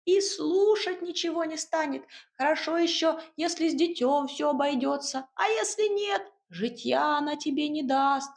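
a bustling little house spirit giving orders. Acted.

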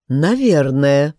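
slow, doubtful agreement; hesitant, not quite convinced; unsure. Acted. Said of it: "не очень уверенно согласился дедушка".

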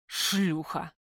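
spent, rasping insult; exhausted gunman rasps at her, hoarse. A narrator's reading. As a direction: croak it out in powerless rage. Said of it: "прохрипел".

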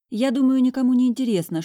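высоко, громко и быстро обрывает; sharp retort. A narrator's reading. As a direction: cut them off, irritated. Heroine cuts off twins. (резко, раздражённо)

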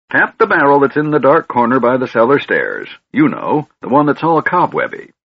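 put-on high, fussy old man voice; a scatterbrained old mage rambling on; doddering old wizard. Fizban giving orders.

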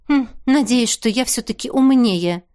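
plain reading voice

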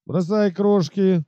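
slow, drawn-out command. Acted. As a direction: give the order to the troop. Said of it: "скомандовал капитан". (командным голосом)

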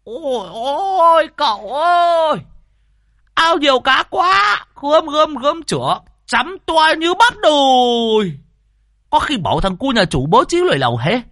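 put-on two old exorcists yelling greedily about the fish in the pond; bellowing greedily. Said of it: "Lâm Sẹo và Đồng già gào lên".

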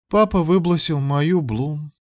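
put-on high, slow child's complaint; complaining child. A narrator's reading. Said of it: "наконец пожаловалась она".

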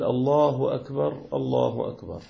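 الله أكبر with the راء of أكبر stopped, no vowel; أكبر ends on a silent, cut-off ر; pausing on akbar. Shown as a demonstration. Teacher demonstrating the adhan with a stopped ر. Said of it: "فيقول".

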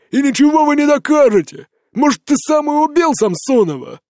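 high, loud accusing yell; drunken shout. A narrator's reading. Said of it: "Он опять перешёл на крик".

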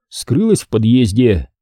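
plain reading voice

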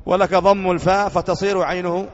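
slowed recitation of the rule; reading the grammar text. Shown as a demonstration. Teacher rereading the rule aloud for students. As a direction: read each word out deliberately. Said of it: "اللغة الثالثة قال".

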